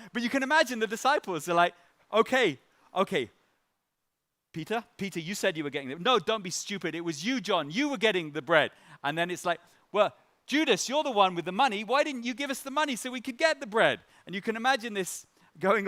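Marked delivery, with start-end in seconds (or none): 2.1-8.7 lightly voiced squabbling disciples; a hint of blaming each other; mock bickering. 9.9-14.0 higher, louder mock blaming of Judas; mock accusation. Disciple blames Judas.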